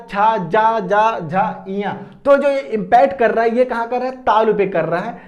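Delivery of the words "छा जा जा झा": "छा, जा, जा, झा" each syllable said slowly and clearly apart; teacher models "छा" "जा" "झा" one by one, crisp; sounding out letters. Shown as a demonstration. Teacher demonstrating the cha-group sounds to students, clearly articulated. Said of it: "अगर हम इसका उच्चारण करते हैं चा".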